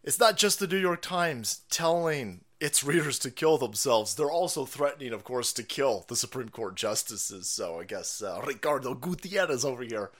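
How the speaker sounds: numb jaw, slightly muffled; ice pack on jaw. Real, not acted. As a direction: talk through a numb jaw. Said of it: "my jaw is numb".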